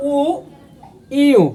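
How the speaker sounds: উ, ই, উ said one by one; Korean vowels. Shown as a demonstration. Teacher drilling similar Korean vowels for learners. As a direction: model each vowel with its small difference. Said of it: "একটু তফাৎ আছে".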